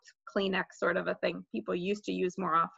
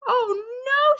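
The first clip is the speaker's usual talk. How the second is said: high, louder cry of dismay; mild scream; 13 semitones higher, 5 dB louder than usual. A narrator's reading. Sheila sees the missing teeth, screaming mildly. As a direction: cry out in horror, short of a full scream. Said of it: "Sheila screamed".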